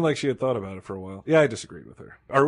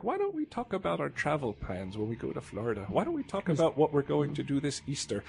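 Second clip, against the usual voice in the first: mock mother; 5 semitones higher, 3 dB quieter than usual. Mom voiced in retold story.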